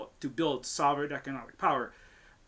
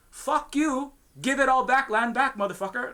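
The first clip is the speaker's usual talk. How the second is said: angry outburst; 6 semitones higher than usual. Real, not acted. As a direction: spit it out, fed up and furious. Furious outburst at colonizers.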